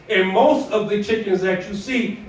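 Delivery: "most" pressed firmly, the rest plain; stress on most. Shown as a demonstration. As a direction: lean on "most", giving it the weight in the phrase. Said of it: "emphasis on the word most".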